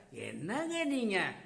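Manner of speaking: slow, drawn-out put-on wail; acted crying. Mother to detective after his harsh words, acted crying. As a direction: stretch the words into a mock bawl. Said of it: "அப்படின்னு சொல்லிட்டு அழறாங்க".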